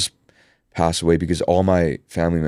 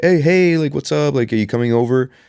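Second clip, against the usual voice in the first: put-on high, bright, cheery upbeat voice; 9 semitones higher, 4 dB louder than usual. Retelling a phone call, speaker imitates how she answered in an upbeat mood. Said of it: "in an upbeat mood".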